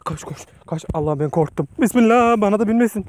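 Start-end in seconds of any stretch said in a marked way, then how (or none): 1.8-3.1 higher and louder in alarm; a sudden alarmed prayer. Real, not acted. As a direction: blurt it out, afraid of the tick. Spots a tick.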